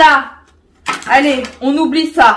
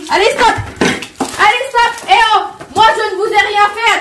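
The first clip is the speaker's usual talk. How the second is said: raised-pitch, indignant objection; urgent protest; 7 semitones higher, faster than usual. Real, not acted. Outsider caught between two fighters, urgent protest. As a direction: push back, high and insistent.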